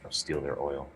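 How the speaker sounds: very quiet, muffled muttering; mumbling under breath. Pretend. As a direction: mumble it to yourself, barely audible. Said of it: "I'm mumbling it under my breath".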